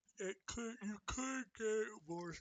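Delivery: words through a yawn, very high, very loud. Speaker discussing the price of a disc, yawning while talking. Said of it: "I apologize for yawning".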